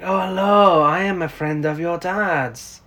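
Priscilla's accent, badly attempted and drawn out at the end; attempted British accent. Co-host voices Priscilla introducing herself, attempted accent. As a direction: attempt her British accent, not quite managing it. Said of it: "I can't do her accent either".

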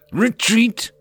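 high, loud shouted order; yell. A narrator's reading. Rider ordering retreat, loud shout. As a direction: bellow the retreat. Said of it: "Stamford yelled again".

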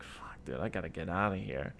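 low, breathless whispered grumble; whispered aside. Retold or imitated. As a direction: mutter it under your breath. Retold inner thought at party.

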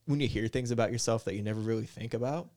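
ordinary delivery

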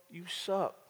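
a soft, mocking inner voice putting him down; condemnation's voice. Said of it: "when it whispers in my ear".

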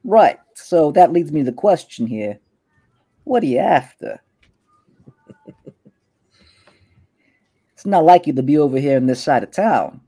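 a hint of a swaggering street boss; smug gang boss. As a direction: Kalen sizing up a rival in his turf. Kalen presses Tower.

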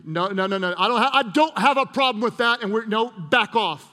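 acted defensive pushback, rising in force; mildly heated mock denial. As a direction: fend them off, hammed-up. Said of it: "Where am I most defensive?".

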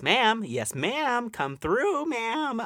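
high, loud hype cheer; cheering her on. Retold or imitated. Moviegoer cheering the heroine's shot, high and hyped. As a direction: hype her up like a diva stan. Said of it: "I was like".

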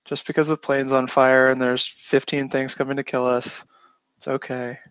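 slow, steady airline captain; calm pilot voice. Retold or imitated. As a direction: reassure the passengers, unhurried. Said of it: "good pilot voice".

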